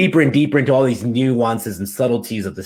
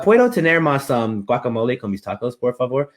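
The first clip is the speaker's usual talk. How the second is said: flat gringo Spanish; 3 semitones higher than usual. Retold or imitated. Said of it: "instead of being like".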